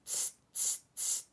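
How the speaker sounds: unvoiced tsk tsk tsk; monkey tsk. Monkeys mocking the peddler, clicking tongues back.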